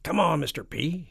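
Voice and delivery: put-on high, loud boyish urging; eager army chief. A narrator's reading. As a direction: egg the boss on. Army chief begs for explosions.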